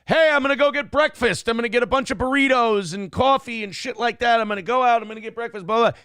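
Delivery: loud, high-pitched announcement to the room; announcing plans. Retold or imitated. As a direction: call out your breakfast run to everyone. Retold announcement to the household.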